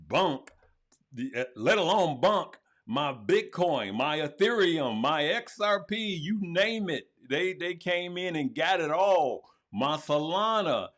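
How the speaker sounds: loud, climbing roll call of losses; worked-up lament. Real, not acted. Streamer lists every coin they came in and took, worked-up lament. Ranting over his lost coins.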